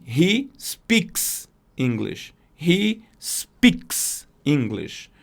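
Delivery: "He speaks English" drawn out word by word; very slow model sentence. Shown as a demonstration. Teacher modelling English slowly for students. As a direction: say it slowly for learners. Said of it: "ela vai dizer assim".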